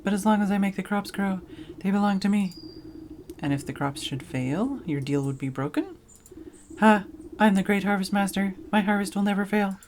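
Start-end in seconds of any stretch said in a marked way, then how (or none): 0.0-2.5 grand, louder scarecrow voice, a bit higher; a pompous field spirit offering a deal; Harvest Master scarecrow. Acted. 6.8-9.8 grand, louder scarecrow voice, a bit higher; a pompous field spirit offering a deal; Harvest Master scarecrow. Acted.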